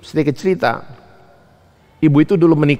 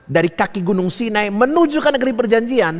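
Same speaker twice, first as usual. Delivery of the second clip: raised, swelling preacher's pitch; preaching; 9 semitones higher than usual. Real, not acted. Preacher to congregation on the journey from Sinai, preaching. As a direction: preach it out high.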